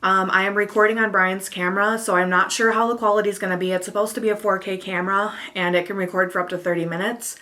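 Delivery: slightly winded talk; out of breath. Real, not acted. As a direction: talk catching your breath. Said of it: "I'm out of breath".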